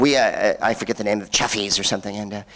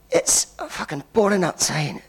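slow, higher, hammed-up Scottish accent; 5 semitones higher, 3 dB quieter than usual. Manager warns diners about the rain, exaggerated Scottish accent. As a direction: drag it out in mock Scottish. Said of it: "That was my Scottish accent".

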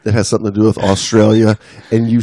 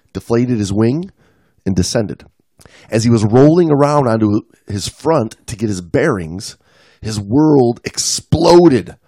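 dramatic read-aloud, lingering on key phrases; animated storyteller reading an article; story narration; 2 semitones higher, 3 dB louder than usual. A narrator's reading. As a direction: read it like an adventure tale.

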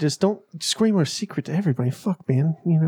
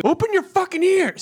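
yelling; 13 semitones higher than usual. Pretend. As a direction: bark the catchphrase at full volume. Repeated catchphrase, yelled.

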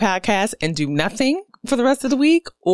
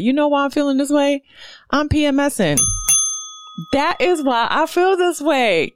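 higher, excited announcement; high, animated eureka; excited revelation; 8 semitones higher than usual. Real, not acted. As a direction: announce the discovery with delight. Excited self-diagnosis.

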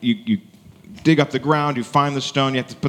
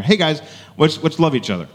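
casual greeting; 5 semitones higher than usual. Shown as a demonstration. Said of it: "I'm a little bit more relaxed".

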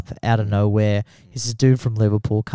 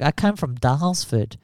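lightly imitated French accent, a little higher; 4 semitones higher than usual. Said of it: "obviously with a fucking French accent".

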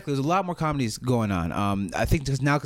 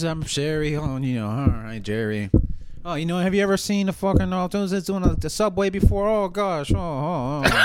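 Jerry Seinfeld impression; 4 semitones higher, slower than usual. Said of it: "Is that your Jerry Seinfeld, like, uh, impression?".

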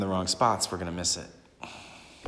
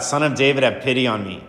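crying out; 4 semitones higher, 5 dB louder than usual. Acted. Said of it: "he just cries out".

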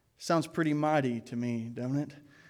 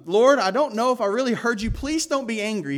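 anxious plea; 6 semitones higher, 6 dB louder than usual. Retold or imitated. Gideon pleading anxiously.

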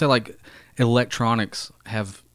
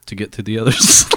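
laughing; 4 dB louder than usual. Real, not acted. Telling joke, breaks into laugh.

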